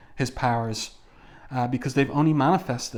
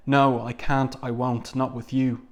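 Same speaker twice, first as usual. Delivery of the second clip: crying out. Acted. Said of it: "she cries out".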